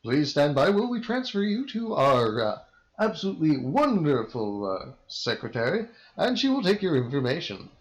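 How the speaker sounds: a hint of a game show host; booming prize announcer. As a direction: play a cheesy radio prize host. Mock radio prize call.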